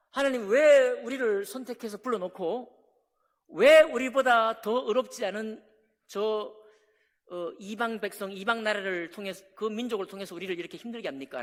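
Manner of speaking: loud, pleading protest to God; protesting demand. Retold or imitated. Prophet Habakkuk arguing with God, loud and protesting. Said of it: "라고 막 따져 물었잖아요".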